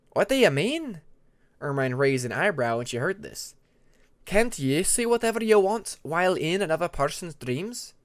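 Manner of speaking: puzzled challenge to Tempest; Ermine, puzzled icewing. Acted.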